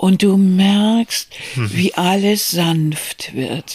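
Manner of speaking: mock, put-on syrupy, unctuous voice. Describing someone's manner of speaking, imitating an unctuous voice. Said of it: "mit so salbungsvoller Stimme".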